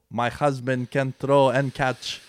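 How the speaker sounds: put-on slow, lightly done Brazilian accent; a hint of a Brazilian accent, hammed badly. Fan quoting Giselle in a weak slow Brazilian accent. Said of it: "That was a terrible Brazilian accent".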